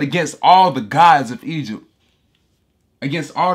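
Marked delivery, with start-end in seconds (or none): 0.0-1.8 loud, declaring God's words; preacher voicing God over his congregation, booming; booming proclamation. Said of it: "he said".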